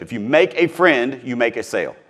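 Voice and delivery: If you make a friend said slowly and deliberately; slow, weighty repeat of the motto; slow emphatic quote. Shown as a demonstration. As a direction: lean on every word of the motto. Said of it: "I say this quote all the time".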